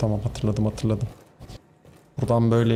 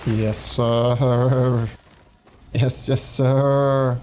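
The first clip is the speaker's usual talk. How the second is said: 1 mock soldier; much slower than usual. Mock answer to own question.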